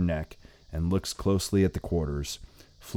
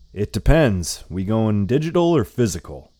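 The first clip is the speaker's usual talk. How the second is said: put-on old lady voice; 4 semitones higher, 6 dB louder than usual.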